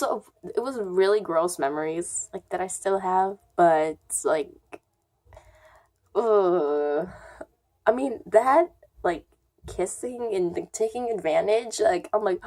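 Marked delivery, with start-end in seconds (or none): 6.1-7.1 drawn-out "ugh"; disgusted groan. Real, not acted. Girl remembering the gross kiss, disgusted groan.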